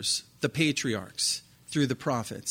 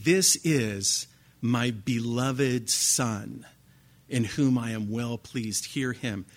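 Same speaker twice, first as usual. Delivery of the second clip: voice of God; 3 semitones lower, slower than usual. Acted. God's voice from the cloud.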